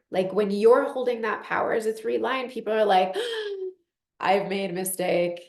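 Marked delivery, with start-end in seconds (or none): 3.2-3.7 krótkie, wysokie westchnienie przestrachu; mock gasp.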